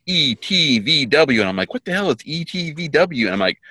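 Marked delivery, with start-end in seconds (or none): 1.7-3.3 higher-pitched puzzled exclamation; mock bewildered question; retold bafflement. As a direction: act out being baffled by the initials. Retelling own baffled reaction.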